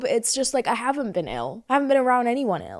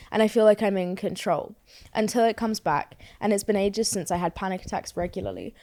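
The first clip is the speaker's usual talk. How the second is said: reading her notes aloud; 2 semitones lower than usual. Acted. Reads her written note aloud.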